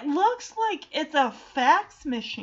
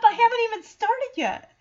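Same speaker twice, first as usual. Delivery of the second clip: panicked; 9 semitones higher, 4 dB louder than usual. Retold or imitated. DJ panics at the test.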